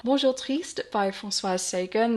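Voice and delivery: a self-conscious stab at a French accent on the title; attempted French accent. Shown as a demonstration. Booktuber reading a French title aloud in a clumsy French accent. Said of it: "The French accent, oh, that is no good".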